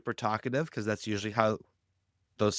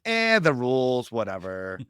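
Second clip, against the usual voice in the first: dismissive. Retold or imitated. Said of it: "who's kinda like".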